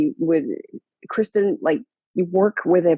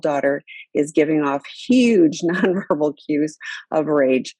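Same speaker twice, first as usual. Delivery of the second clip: reading the question through a laugh; can't hold back a chuckle mid-question; laughing while reading. Real, not acted. Host reading a listener's question, laughing. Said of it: "I'm laughing 'cause".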